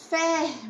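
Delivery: FERMENTO in three pieces, "fer", "men", "to"; syllable by syllable. Shown as a demonstration. Teacher introducing a word to pupils, "fermento" sounded out in syllables. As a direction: sound out "fermento" with a pause after each syllable. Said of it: "A palavra é".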